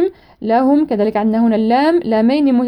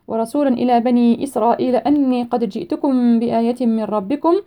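measured chanted recitation; Quran recitation. Shown as a demonstration. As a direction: recite with tajweed care. Teacher recites Quran verse.

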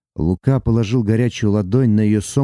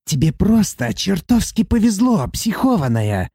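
higher, grating dwarf voice; nasty creaking voice; 8 semitones higher than usual. A narrator's reading. Dwarf demon mocking Sati in a grating voice. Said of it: "проскрипел кто-то противным голосом".

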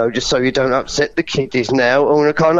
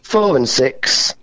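steady bingo calling, number by number; bingo caller. Shown as a demonstration. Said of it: "Do some bingo caller numbers for me".

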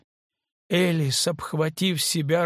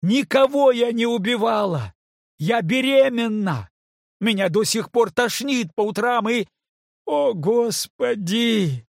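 much higher, loud anguished cry; desperate screaming; 9 semitones higher, 5 dB louder than usual. Acted. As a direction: scream it out, close to breaking. Kate screaming in despair.

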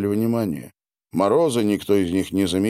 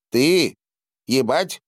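higher, pushing creature voice; a small furry creature demanding; insistent creature demand; 7 semitones higher than usual. A narrator's reading. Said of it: "повторила она". (настойчивый высокий голос существа)

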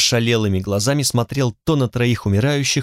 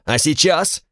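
fierce question; 5 semitones higher, slower than usual. Acted. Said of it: "Шеф спросил люто".

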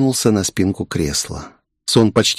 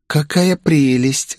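delighted gush; 5 semitones higher, slower than usual. Acted. Girl delighted by new sister.

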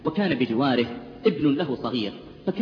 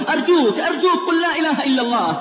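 much higher, louder tearful plea; frantic, higher, louder pleading at the deathbed; desperate begging; 11 semitones higher, 5 dB louder than usual. Retold or imitated. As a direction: beg him through tears. Doctor weeping and begging.

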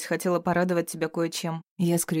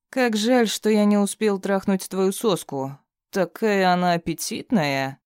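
sneering captive villain; 4 semitones higher, 4 dB louder than usual. Acted. Bound thug taunting his captor, mocking sneer. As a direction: jeer at him, barely altered voice.

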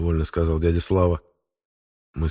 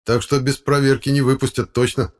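ordinary delivery, nothing marked

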